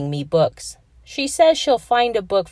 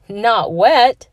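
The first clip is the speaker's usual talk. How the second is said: indignant; 4 semitones higher, 6 dB louder than usual. Acted. Adwin answers the pants joke.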